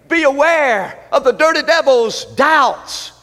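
high-pitched, emphatic pulpit exhortation; impassioned preaching. Real, not acted. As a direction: drive the point home phrase by phrase. Preaches second point.

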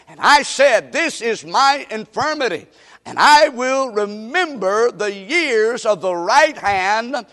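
slow, emphatic pulpit reading; scripture reading. Real, not acted. Preacher reads the psalm to the congregation, slow proclamation. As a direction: proclaim the psalm with drawn-out words.

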